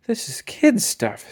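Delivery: slow, unimpressed class; bored. A narrator's reading. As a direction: drag it out, utterly unimpressed. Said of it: "said the class".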